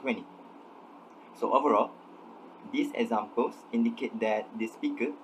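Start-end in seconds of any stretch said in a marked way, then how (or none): 0.0-0.2 "twenty" said as "twenny"; "twenty" shortened to "twen-ee"; elided t. Shown as a demonstration. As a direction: drop the second t from "twenty". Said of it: "instead of twenty".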